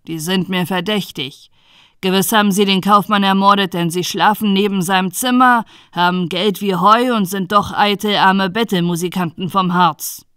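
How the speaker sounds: a hint of an indignant innkeeper; lightly voiced accusing innkeeper. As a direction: press the accusation on the judge. Innkeeper accuses guests to judge.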